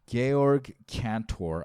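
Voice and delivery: Georg said slowly, like George without the E; careful name pronunciation. Shown as a demonstration. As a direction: sound out Georg Cantor with care. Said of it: "I think that's how you say his name".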